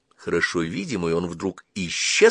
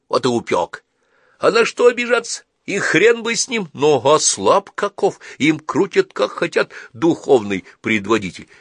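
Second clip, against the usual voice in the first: higher, louder indignant wanderer; 5 semitones higher, 5 dB louder than usual. Acted. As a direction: scoff and complain, rising higher. Калик спорит, возмущается. (возмущённый странник, выше и громче)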